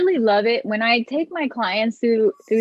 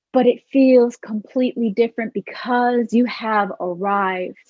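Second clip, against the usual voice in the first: guided meditation. Acted. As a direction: lead them calmly through it. Leads a guided visualization.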